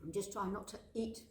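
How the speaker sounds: speaking around a bite of bread; mouth full. Real, not acted. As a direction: mouth full, words muffled by chewing. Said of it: "speak with my mouth full".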